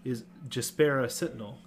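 ordinary delivery

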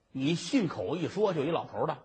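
quick, scoffing repeat of 一老头儿的 with a rise on 信; the judge throws the words back at him; sneering copy of his excuse; mocking echo. Judge mocks the answer.

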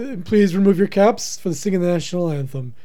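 lightly voiced stadium announcer; mock announcer. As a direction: announce the anthem with mock formality.

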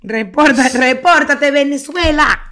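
loud call to the listeners. Real, not acted. Host loudly calling on Venezuelan listeners. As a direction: shout it out to the whole country.

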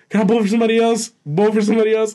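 high, rapid imitation of an eager pest; eager drunk brother. Imitating drunk brother asking another girl, high eager pleading.

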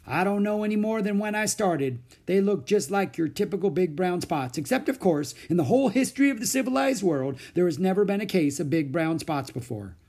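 a baffled doctor thinking aloud; puzzled doctor. Acted.

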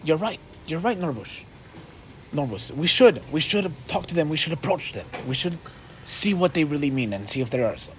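dwarf nodding along, quietly agreeing; dwarf agreeing with his buddy, lightly voiced. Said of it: "He looks and he goes".

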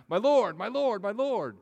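put-on loud high pleading in a British accent. Petitioners crying to the chancellor, pleading British accent. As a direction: beg "my lord" in a British accent. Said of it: "with a British accent".

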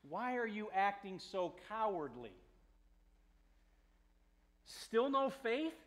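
measured reproach, lifting on the question; mild stern rebuke. Acted. Jesus questioning his fearful disciples, mildly stern. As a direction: gently take them to task. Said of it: "So there's this stern".

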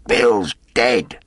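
loud called-out news; startled, loud announcement; shouting from inside. A narrator's reading. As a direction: shout it out to those in the road. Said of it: "a voice shouting from the house".

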